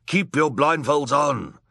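loud, slow, high-pitched order; drawn-out villain shout; villain's command. A narrator's reading. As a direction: order the crowd forcefully.

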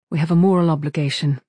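firm statement with a falling end; holding back emotion. A narrator's reading. Crewmate insisting to the captain, emotion held back. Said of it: "as if fighting back her emotions".

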